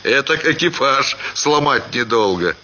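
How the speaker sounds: лёгкий голос барина, чуть выше; весёлый барин жалуется на дорогу, с усмешкой; голос Ханова. A narrator's reading. (Ханов жалуется на дорогу, с лёгкой усмешкой)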